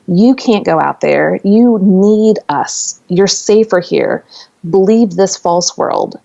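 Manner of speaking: lightly voiced show creator, slow and drawn out; booming creator voice. Show's creator urging him to stay, lightly imitated booming voice. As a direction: stretch it slowly like a mild booming warning from above. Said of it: "this booming voice of the creator of the show".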